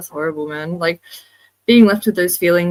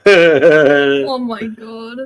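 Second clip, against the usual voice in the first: disgusted groan; 2 semitones higher, 10 dB louder, much slower than usual. Real, not acted. Reacting to smelling DMT.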